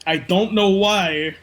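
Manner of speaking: slow, drawn-out mock Rollins craving eyes; lightly voiced Rollins, slow and pleading; mock scripture as Rollins. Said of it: "Rollins three sixteen says".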